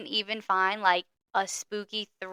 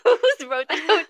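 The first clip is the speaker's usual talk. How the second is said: high, slow catchphrase echo; milk it with a laugh; exaggerated catchphrase; 7 semitones higher, 5 dB louder, slower than usual. Echoing the catchphrase.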